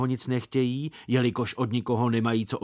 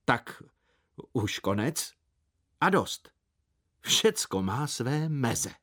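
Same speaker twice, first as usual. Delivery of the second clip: stern; slower than usual. A narrator's reading. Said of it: "pravil přísně".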